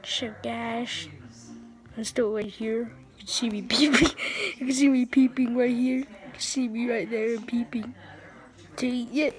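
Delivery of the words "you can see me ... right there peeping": playful whisper. Pretend. Hiding, peeping at camera.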